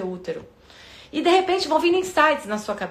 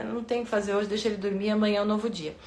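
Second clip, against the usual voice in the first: quiet self-talk; 3 semitones lower, 6 dB quieter, faster than usual. Retold or imitated. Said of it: "eu falei".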